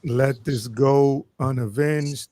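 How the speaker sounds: slow, hammed-up dying plea; milk the dramatic last words; overacted death scene. Mock dying plea for vengeance.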